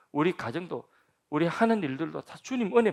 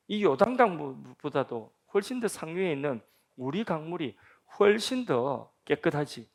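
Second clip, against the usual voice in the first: ordinary delivery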